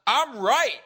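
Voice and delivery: loud, high-pitched outraged insistence; imitated indignant shout. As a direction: shout it back like an offended partisan. Retold furious man insisting loudly.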